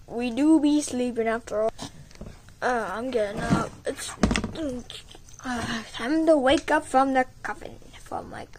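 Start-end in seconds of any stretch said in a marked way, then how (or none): 5.4-8.5 sleepy whisper. Acted. Waking up from coffin.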